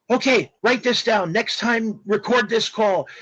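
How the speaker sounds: mock French caller giving brisk orders; French accent. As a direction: put on a French-accented phone voice. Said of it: "strong French accent".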